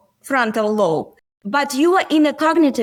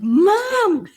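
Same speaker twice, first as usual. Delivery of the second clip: put-on whiny child voice; 8 semitones higher than usual. Son in the back row complaining to mom, high childish whine. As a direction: play the upset little boy crying it's not fair. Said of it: "he's like".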